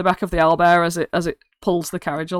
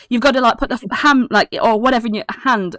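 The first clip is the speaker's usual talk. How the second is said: put-on excitable kid; 4 semitones higher, faster than usual. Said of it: "he turns to Holland and he's like".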